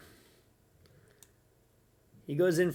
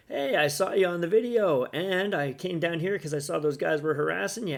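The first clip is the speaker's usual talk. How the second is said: lightly voiced eager rescuer, chest puffed; white knight voice; 3 semitones higher than usual. Mocking the viewer who rescued her, a light heroic voice. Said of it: "Mister White Knight coming in".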